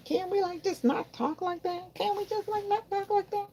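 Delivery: high pleading sassy repeat; high mock whine. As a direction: whine it like a fussy girl.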